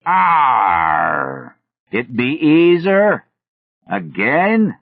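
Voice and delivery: drawn-out cry climbing high in pitch; loud shriek. A narrator's reading. Villager in the lead sees the narrator and stands paralyzed, loud shriek. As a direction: shriek it out long and loud, letting it ring. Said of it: "shrieked loudly and reverberantly".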